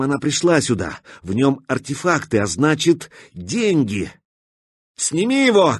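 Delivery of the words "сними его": high urgent shout. A narrator's reading. Katya shouting at the stalker to drop the container. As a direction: yell it at him, commanding. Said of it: "крикнула Катя".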